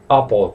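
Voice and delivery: "Apple" ending as if written with an O; "Apple" with a rounded, dark last syllable. Shown as a demonstration. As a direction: say "Apple" as "A-pol". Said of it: "como si fuera una O".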